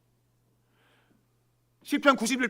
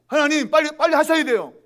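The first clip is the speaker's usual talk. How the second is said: high, loud hurrying of God; pushy threatening demand; 6 semitones higher, 8 dB louder than usual. Retold or imitated. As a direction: imitate someone pressing God to act now. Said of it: "협박하는 거죠". (재촉하며 다그치는 목소리)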